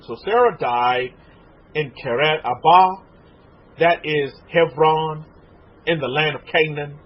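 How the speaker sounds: slow, measured Bible reading; scripture reading. Acted. Preacher reading Genesis to the congregation, slow scripture reading. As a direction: read the verse out slowly, phrase by phrase.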